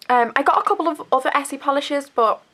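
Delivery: stuffy nose from a cold; bunged up with a cold; blocked nose. Real, not acted. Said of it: "I've got a bit of a cold, so, like, I'm a bit bunged".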